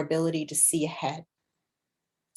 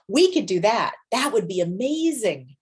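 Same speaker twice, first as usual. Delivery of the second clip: cheerleader voice; 2 semitones higher than usual. Shown as a demonstration. A teacher voicing the intuitive voice as a cheerleader. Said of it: "It's like a cheerleader".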